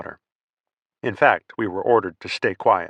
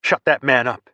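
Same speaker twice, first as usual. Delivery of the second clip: forced, louder urgent command; urgent hiss; 4 semitones higher, 4 dB louder than usual. Acted. Sergeant demanding silence from his men, urgent and forceful. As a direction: snap at them to silence him. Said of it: "Hillbilly hissed".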